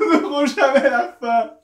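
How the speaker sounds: talking through loud laughter; laughing. Real, not acted. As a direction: burst out laughing mid sentence. Laughing at the prank.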